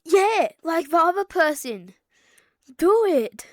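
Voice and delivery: loud egging on; shouted urging. Real, not acted. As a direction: shout him on. Urging louder.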